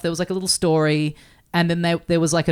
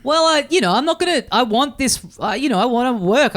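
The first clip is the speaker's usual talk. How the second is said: higher-pitched, stumbling excuses; mock self-justifying; 5 semitones higher than usual. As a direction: imitate your younger self talking yourself into it. Retold self-justification for taking job.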